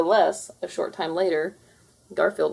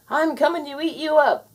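ghostly rumble; 10 semitones higher, 5 dB louder than usual. Acted. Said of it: "it rumbled".

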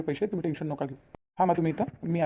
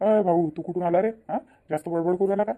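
louder, challenging the lender; angry confronting; 4 dB louder than usual. Acted. Younger brother angrily confronting the moneylender at home. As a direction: stand up to him, raise your voice.

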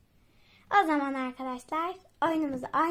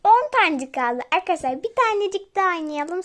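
louder, eager call to viewers; excited call; 5 semitones higher, 8 dB louder than usual. Real, not acted. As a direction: pump the viewers up. Excited during the match. (heyecanla seslenerek)

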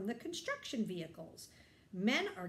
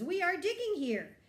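higher, louder call of a foreman; foreman's voice; 8 semitones higher, 6 dB louder than usual. Acted. Foreman telling Papa about the dig, called out loud. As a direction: announce it like a proud site boss. Foreman speaks in read-aloud story.

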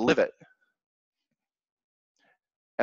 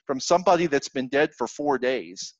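incredulous doubt; 4 semitones higher, 3 dB louder than usual. Retold or imitated. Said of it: "it's like".

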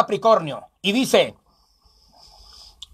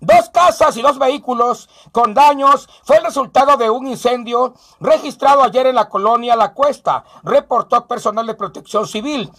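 steady local newscaster; radio news bulletin; news read. Acted. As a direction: read the fire report straight. Reads news report.

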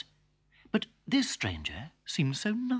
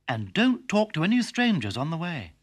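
firm mother; 5 semitones higher, 3 dB louder than usual. Acted. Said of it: "said her mother".

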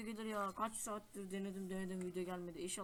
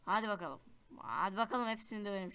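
loud, pumped-up battle call; excited rallying cry; 7 dB louder than usual. Real, not acted. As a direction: hype yourself up for the fight. Rallying for a fight in-game. (coşkulu, yüksek sesle)

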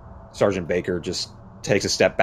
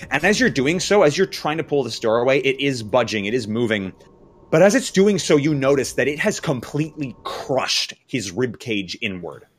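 raised, deliberate horror storytelling; dramatic narration; 5 semitones higher, 4 dB louder than usual. A narrator's reading. Game master revealing a crushed man's injuries to players, dramatic and grave. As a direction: draw out the gruesome reveal with pauses.

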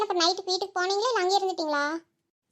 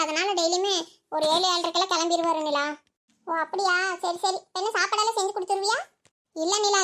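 ordinary talk, nothing marked

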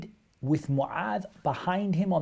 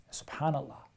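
awed whisper; 7 dB quieter than usual. Real, not acted. Awed aside after the hadith.

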